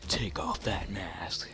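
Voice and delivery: slow, drawn-out retold command; each word stretched for emphasis; insistent repeated order. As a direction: imitate an old man spelling out an order slowly. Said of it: "then he repeated himself".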